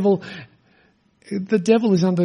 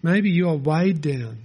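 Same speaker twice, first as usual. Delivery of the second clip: gentle, sincere; 2 semitones lower, 5 dB quieter than usual. Real, not acted. Pastoral address to the burdened.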